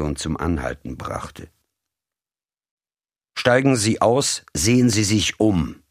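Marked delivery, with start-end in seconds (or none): 3.3-5.8 höher, knapper Befehlston; befehlend. A narrator's reading. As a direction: fordere sie bestimmt zum Aussteigen auf. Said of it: "klang nun wieder befehlend". (der Mann befiehlt Mary befehlend auszusteigen)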